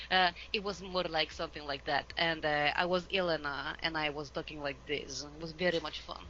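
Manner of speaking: light, put-on Russian accent. Shown as a demonstration. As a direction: demonstrate a Russian accent for a game role. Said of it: "with a Russian accent, actually".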